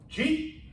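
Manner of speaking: "Chief" as one clipped rising syllable for did you eat; slurred shorthand. Retold or imitated. Captain asking a colleague about lunch, slurred shorthand. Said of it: "it's inarticulate, but we're so comfortable".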